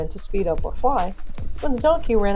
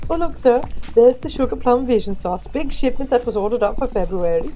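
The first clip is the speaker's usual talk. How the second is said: louder, higher start, showing off the works; eager tour guide; 3 semitones higher, 4 dB louder than usual. Acted. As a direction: point it out eagerly to a guest. Elf excitedly showing off the vats.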